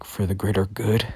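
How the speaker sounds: mildly indignant echo, rising as a question; mad. Acted. Deku echoes Overhaul's excuse for killing, mildly mad. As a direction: throw it back in understated, offended disbelief. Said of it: "Deku gets mad by that".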